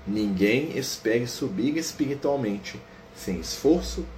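slow, uplifted sermon read; solemn reading. Acted. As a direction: read the instructor's exhortation with gravity.

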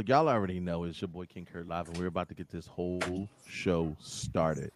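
low, soft late-night DJ voice; breathy vintage purr; deep radio host voice. Acted. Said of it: "I gotta get deep into the microphone".

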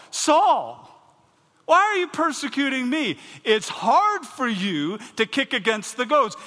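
thunderous divine rebuke; shouting. Acted. Preacher shouting the Lord's words.

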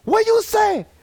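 hammed-up angry shopkeeper voice; broad comic immigrant accent; mocking Asian accent. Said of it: "it put me in character".

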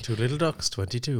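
Spanish bingo caller. Retold or imitated. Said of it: "hearing it in a Spanish accent".

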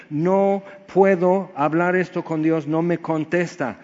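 a touch of Job's desperate cry; mild cry out. Retold or imitated. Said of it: "Job está gritando". (Job clamando con desesperación contenida)

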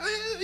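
mock high-pitched "eeh" of ecstasy; high trance-like moan. Preacher mimics woman shaking her head in tongues, high wail.

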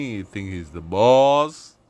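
drawn-out swagger on "boss"; self-important main-guy voice; bossy main guy. Acted. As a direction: stretch "boss" out slowly like the man in charge. Voicing his swaggering main-guy personality.

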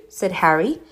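plain reading voice

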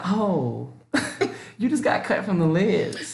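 soft, slow, laughing brush-off; laughing dismissal. Retold or imitated. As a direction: cut him off with a giggle.

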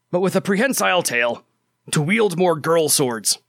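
lightly voiced comic orc, half whispered; a hint of a pompous orc reading his letter; Kogorsi the orc voice. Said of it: "to do this in a very funny voice".

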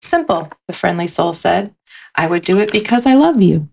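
gentle storybook read-aloud; lilting picture-book narration; reading to children. A narrator's reading.

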